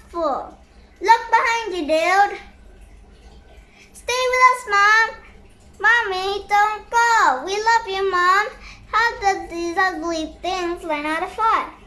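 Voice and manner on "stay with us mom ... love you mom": pleading, louder calls; calling after mom. Acted. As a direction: cry out for mom to come back. Children begging mom to stay.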